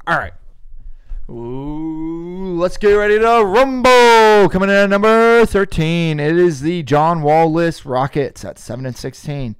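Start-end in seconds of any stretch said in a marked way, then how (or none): 1.3-9.6 hyped YouTuber countdown intro; playful online-host hype. Pretend. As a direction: open big like a YouTuber, then ease off. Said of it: "why are you doing a YouTuber voice?".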